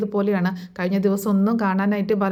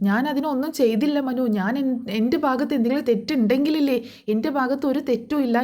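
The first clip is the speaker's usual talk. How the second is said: higher, indignant protest, imitated; pitched-up mock indignation; getting angry again; 5 semitones higher than usual. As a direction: mimic her defensive anger with pitch up. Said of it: "വീണ്ടും ദേഷ്യപ്പെടുകയാണ്".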